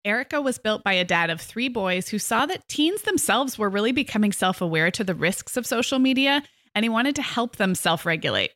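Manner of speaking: scripted, smoothly delivered product pitch; sponsor ad read. Acted. Co-host explaining the app to listeners, ad read. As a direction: read out the sponsor's story clearly.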